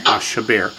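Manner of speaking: "Ashaber" with a reduced, non-full vowel; teacher's model of "Ashaber", one vowel cut short; shortened vowel. Shown as a demonstration. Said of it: "the vowel under the aleph is not a full vowel".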